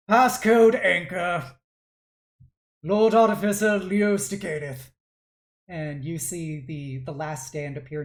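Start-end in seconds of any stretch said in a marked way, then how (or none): 0.1-4.9 commanding passcode. Acted. Father overriding his creation by passcode, commanding.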